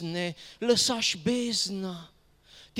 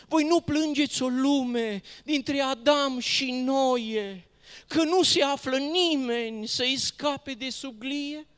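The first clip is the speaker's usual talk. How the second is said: raised, higher-pitched declaimed plea; impassioned reproach; 5 semitones higher than usual. Acted. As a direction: cry out the questions in poetic indignation. Poem reproaches stars for not weeping.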